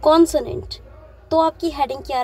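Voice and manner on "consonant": each word slowly spaced out for copying; slow, spaced exam dictation. Shown as a demonstration. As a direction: dictate it slowly so students can write. Teacher dictates exam question.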